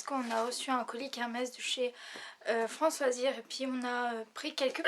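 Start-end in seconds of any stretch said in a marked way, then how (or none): 4.1-4.8 speaking with hiccups; words broken by a hiccup. Real, not acted. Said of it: "pardon, j'ai le hoquet".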